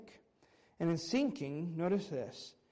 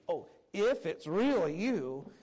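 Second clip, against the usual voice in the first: slow, skeptical testing tone; doubtful test; slower than usual. Pretend. Peter testing Jesus on the water, slow and doubting. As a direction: say it as if you half doubt he's there. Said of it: "this is not him saying, like, a test".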